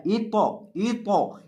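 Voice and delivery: ई तौ with a full, heavy तौ; heavy tau. Shown as a demonstration. Teacher demonstrating the heavy तौ. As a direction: make the तौ in ई तौ thick. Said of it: "तौ को यहाँ मोटा करके पढ़ना है".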